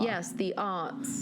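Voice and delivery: slow, savoured mock grandeur; mock reverence. Teasing the co-host about the arts, mock reverence.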